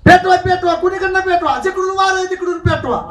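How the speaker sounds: mock crowd yelling; mock shouted orders. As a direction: bark the orders like a fussy villager. Mocking villagers shouting instructions.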